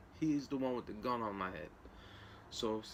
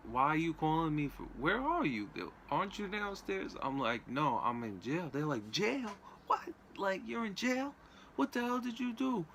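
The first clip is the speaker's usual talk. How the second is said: much higher, rising alarm as he mimics his mom; imitating alarmed mom; 6 semitones higher than usual. His mom learning he's in jail, a high shocked imitation. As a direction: play the shocked mother hearing bad news.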